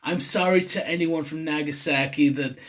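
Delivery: half-hearted American accent impression; semi-American accent. Imitating YouTubers sorry for mispronouncing place names, in a loose American accent. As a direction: lightly mimic an American YouTuber apologising. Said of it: "a semi-impression of an American accent".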